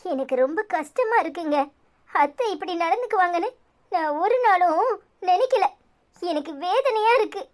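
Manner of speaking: a wife crying to her husband, blaming her own temper; tearful self-blame. Acted. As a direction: voice rising as the tears come. Wife distressed about mother-in-law.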